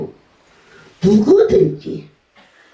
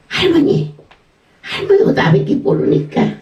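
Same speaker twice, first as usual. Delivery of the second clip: put-on much higher, sweet-talking boy; grandson's voice; 11 semitones higher than usual. Grandson coaxing his grandmother, high and sweet. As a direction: coax grandma like a cheeky grandson.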